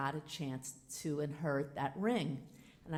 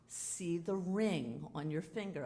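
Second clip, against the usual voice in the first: soothing repeat. Retold or imitated.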